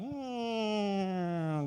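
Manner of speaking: long, sliding "mm" like something spinning away; drawn-out hum that slides downward; imitated falling whine. Shown as a demonstration. Preacher voices getting knocked out of orbit, falling whine.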